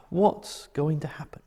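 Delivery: a frightened whisper to himself; fearful whisper. Retold or imitated. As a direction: breathe it out in fear. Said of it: "thought Barabbas".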